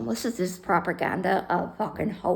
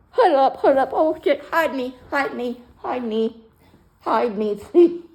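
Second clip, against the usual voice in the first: louder, higher hammed-up panicky plea; mock panic; 4 semitones higher, 5 dB louder than usual. Hiding from her old crew, loud mock panicked plea. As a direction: beg the crew to hide you, mock panic.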